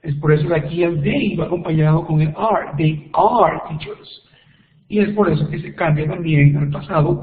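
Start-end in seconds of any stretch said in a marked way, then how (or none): 2.8-4.3 I am, drawn out slowly; slow demo. Shown as a demonstration. Teacher to Spanish-speaking students, slowly modelling English. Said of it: "teacher demonstrating example sentence".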